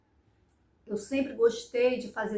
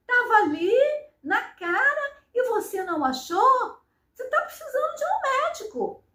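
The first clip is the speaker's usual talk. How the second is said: high, mocking boyfriend's voice with a laugh; imitating mocking boyfriend; 6 semitones higher than usual. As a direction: sneer it out like a teasing man. Namorado zomba dela, voz imitada. (imitando o namorado debochado, voz aguda e risonha)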